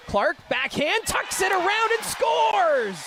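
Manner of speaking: long goal yell. Real, not acted. Play-by-play goal call.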